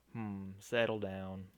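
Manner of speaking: slow, half-hearted southern drawl; attempted southern accent. Captor settling the captive down, rough southern accent. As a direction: try a southern accent, unhurried. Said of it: "Maybe I can't do a southern accent".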